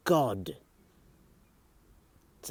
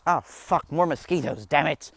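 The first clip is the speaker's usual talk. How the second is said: loud, higher frustrated shout; annoyed yell; 7 semitones higher, 12 dB louder than usual. Real, not acted. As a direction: yell at the mosquitoes. Swatting mosquitoes, yelling.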